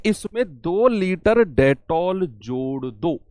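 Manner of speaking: slowed right down, word by word; unhurried teacher read; slow reading of the question. Shown as a demonstration. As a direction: spell the question out slowly for the class. Teacher reads question slowly.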